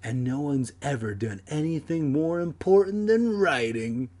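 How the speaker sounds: put-on pompous writer voice; R L Stine. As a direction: intone it with grand self-importance. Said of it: "Like the R L Stine's just like".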